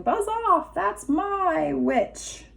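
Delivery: high, slow beast bellow; beast's voice. Acted. Retelling the beast chasing off the dragon, bellowing. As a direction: ham up the horrible creature.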